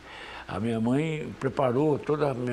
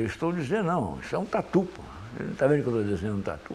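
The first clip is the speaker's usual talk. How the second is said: retold indignation; faster than usual. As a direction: retell a put-out objection, rushing the end. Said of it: "eu fiquei indignado".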